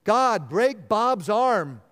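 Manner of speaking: slow, emphatic mock curse; hammed-up vengeful plea; mock harsh prayer. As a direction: call down harm in a drawn-out prayer. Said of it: "You ever prayed a prayer like that?".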